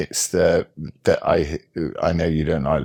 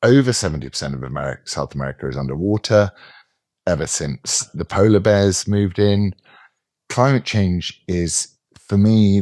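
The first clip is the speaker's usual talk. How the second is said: mock woke commentator; 3 semitones higher than usual. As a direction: parody a sanctimonious progressive, hammed up. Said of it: "Think of this".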